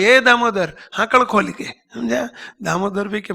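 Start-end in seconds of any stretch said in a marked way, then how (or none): 0.0-1.5 lightly raised, higher call; mild retold yell. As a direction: imitate calling out from a window, half-voiced. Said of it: "ગંગામાએ બારીએથી બૂમ પાડી". (હળવી બૂમની નકલ)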